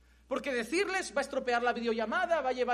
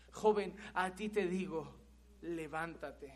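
slower, softer and lower, weighty; slow quiet command; 5 semitones lower, slower than usual. Acted. Jesus to the dead young man, slow hushed command. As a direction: let the command sink in quietly.

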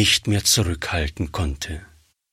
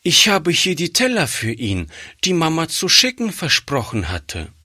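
put-on higher, small girl's voice; little girl; 6 semitones higher than usual. A narrator's reading. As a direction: speak as a shy little girl. Child speaks in the story. (kleines Mädchen, höhere Stimme)

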